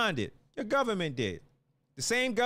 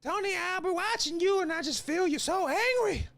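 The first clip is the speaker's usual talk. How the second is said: mother's voice; 9 semitones higher than usual. Retold or imitated. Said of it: "My mother would say".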